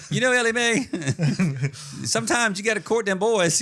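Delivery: hammy backwoods codger voice; old prospector. Retold or imitated. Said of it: "Uncle Jed talking to Ellie Mae".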